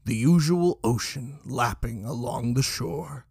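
penetrating smoke-ravaged rasp; Jackson. A narrator's reading. Jackson heard from down the hall, penetrating rasp. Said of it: "Jackson's rasp penetrated".

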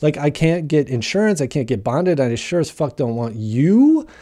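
high, loud startled rejection; shocked refusal. Retold or imitated. Life coach hearing his felony past, shocked and refusing. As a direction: recoil and turn him down. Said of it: "Most people go".

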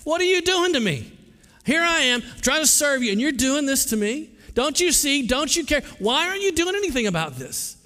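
high, pleading yell at God; retold yell of a hurt pastor at God. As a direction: cry out at God in frustration. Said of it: "yelling at God".

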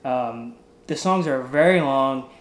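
talking while chewing gum. Real, not acted. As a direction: gum in the mouth. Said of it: "Will you stop chewing your gum?".

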